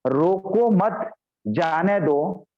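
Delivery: "रोको मत" said slowly as one unit, then "जाने दो"; slow demo, break after "मत" in "रोको मत, जाने दो"; demo phrasing. Shown as a demonstration. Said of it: "इसी को मैं अलग से बोलूंगा". ("रोको मत" साथ में, फिर रुककर "जाने दो")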